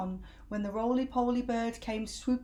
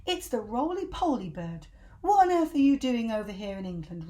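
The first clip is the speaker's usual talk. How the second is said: excited surprise; 2 semitones higher, 5 dB louder than usual. Acted. Monkeys greeting surprising visitor.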